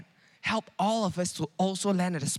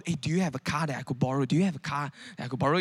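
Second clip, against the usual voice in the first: hurried asking; 5 semitones lower, faster than usual. Retold or imitated. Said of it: "asking people that I really don't know".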